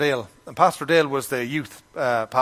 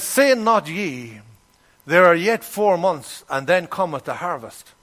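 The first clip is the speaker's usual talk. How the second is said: scripture reading; 2 semitones higher than usual. Acted. Reads scripture verse.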